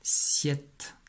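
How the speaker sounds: whispered. Shown as a demonstration. Teacher whispering the dictation syllable to the pupil. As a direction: whisper "Siette" with no voice.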